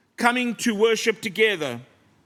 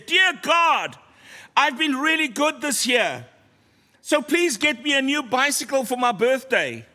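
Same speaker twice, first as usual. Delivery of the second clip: mock shouted prayer; 4 semitones higher than usual. Boy praying so grandma next door hears, mock shouting. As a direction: imitate a boy belting out his prayer. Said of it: "on the top of his lungs, he screams and he shouts".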